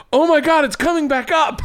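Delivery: loud, high mock alarm; retold prankster yell on a boat; top of his lungs. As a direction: shout it like the sun is really rising again. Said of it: "at the top of his lungs goes".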